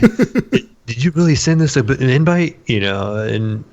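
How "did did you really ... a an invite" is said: mock incredulous friend. Mimicking a friend's high surprised question. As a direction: squeak it out like a doubting buddy. Quoting friends asking about invite.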